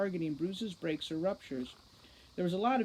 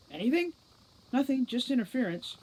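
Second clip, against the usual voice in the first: loud, higher demand; impatient demand; 7 semitones higher, 5 dB louder than usual. Acted. Root impatiently demanding news from Foley, loud. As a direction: press for an answer.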